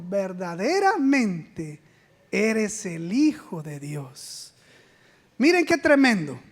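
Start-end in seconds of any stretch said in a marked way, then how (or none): 0.0-4.5 awed worship. Acted. Disciples worship Jesus in the boat.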